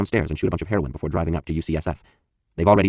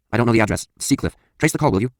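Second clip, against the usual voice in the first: louder, higher pleading caller; urgent; 5 semitones higher, 3 dB louder than usual. Retold or imitated. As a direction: beg the operator in a hurry. Panicked caller on phone.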